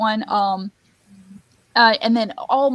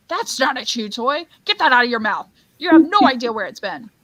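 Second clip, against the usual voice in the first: the Grinch; 3 semitones higher, 6 dB louder, faster than usual. Acted. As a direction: scold a dog in mild mock outrage. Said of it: "when Max bites the Grinch, he goes".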